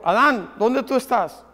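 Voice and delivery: soft, tender calling of a name, no yelling; gentle, not shouting. Acted. God calling Adam in the garden, softly and tenderly. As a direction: call him gently, like a father looking for his child. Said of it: "Dios no le estaba gritando".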